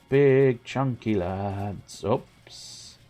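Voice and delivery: mock cooing. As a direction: coo at them like naughty pets. Cooing at enemy turning around.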